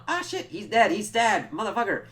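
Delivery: high, panicked mock cry; panicked cameraman. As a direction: yelp it like a terrified bystander. Cameraman panicking in imagined scene.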